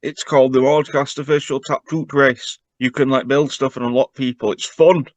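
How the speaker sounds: lightly voiced excitable little dragon; eager little dragon. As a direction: pester him like an excited child. Dragon character pitching game.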